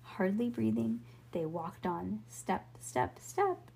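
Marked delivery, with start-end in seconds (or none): 2.3-3.7 whispered steps. Acted. Tiptoeing hardly breathing.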